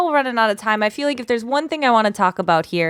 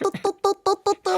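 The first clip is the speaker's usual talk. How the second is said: toddling sound; 10 semitones higher, faster than usual. Shown as a demonstration.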